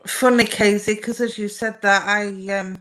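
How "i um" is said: talking through a yawn. Real, not acted. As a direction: yawn while speaking. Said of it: "I'm yawning away".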